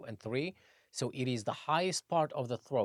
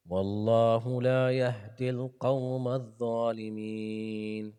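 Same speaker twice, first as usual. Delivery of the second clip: Quran recitation; faster than usual. Acted.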